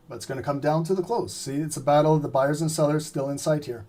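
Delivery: hoarse, fading voice; losing his voice, a bit hoarse. Real, not acted. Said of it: "guys, I'm losing my voice".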